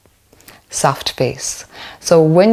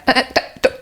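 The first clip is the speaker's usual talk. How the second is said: dismissive parent; 3 semitones higher, faster than usual. Retold or imitated. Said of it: "we say things like".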